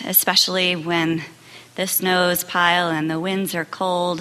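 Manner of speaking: measured, even prayer with pauses. Real, not acted. Minister praying with congregation after silence, prayerful. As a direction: lead a congregation in steady, reflective prayer.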